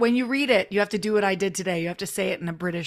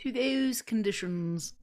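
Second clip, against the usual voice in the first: British accent; 6 dB quieter, slower than usual. Shown as a demonstration. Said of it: "that's how he sounded".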